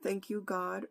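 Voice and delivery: earnest prayer. Acted. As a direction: pray aloud, humbly, to God before the sermon. Opens with a prayer.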